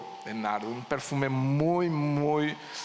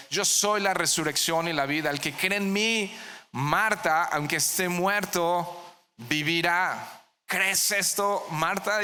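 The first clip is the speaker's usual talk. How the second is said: raised, higher earnest voice of Jesus; voicing Jesus; 5 semitones higher than usual. Jesus asking Marta if she believes, in a raised, higher voice. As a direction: proclaim it as Jesus would, lifting high.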